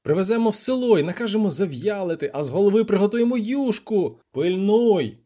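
high, eager planning; excited gloating. A narrator's reading. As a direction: crow over the catch while straining. Poet gloats while hauling catfish.

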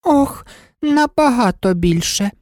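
slow, high fretful moan; whining White Queen; wringing hands. Acted. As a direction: lament it. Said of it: "ламаючи руки".

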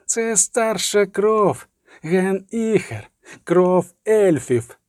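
slow, high incantatory prophecy; inhuman voice. A narrator's reading. Inhuman voice proclaiming the Elder Blood, cold and ominous. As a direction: intone it slowly, stretching each phrase. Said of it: "повторив голос".

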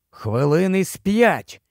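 plain reading voice

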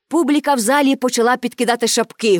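plain reading voice

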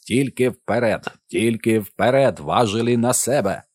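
slow, drawn-out loudspeaker command; tape-recorded voice. A narrator's reading. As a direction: stretch each word like a blaring recorded order. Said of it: "повідомляв магнітофонний голос".

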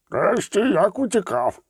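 high, drawn-out delighted exclamation; excited outburst in a character voice; delighted cry. A narrator's reading. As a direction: cry out in admiration, stretching the words. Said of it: "захоплено крикнув Перцифаль".

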